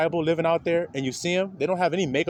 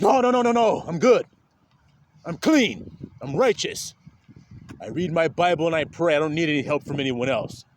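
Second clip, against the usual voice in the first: proud refusal; 3 dB louder than usual. Retold or imitated. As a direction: brush off the help, self-righteous. Proud man refusing help.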